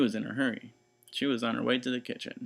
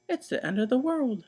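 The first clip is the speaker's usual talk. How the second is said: 1 terrified wail; 13 semitones higher, 3 dB louder than usual. Acted. Missus Watson panicking.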